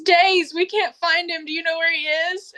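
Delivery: high, urgent imitation of an upset caller; high-pitched distraught woman. Caller begging for news of missing man, high-pitched distress. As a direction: plead in a put-on high voice. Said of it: "She's got a high-pitched voice".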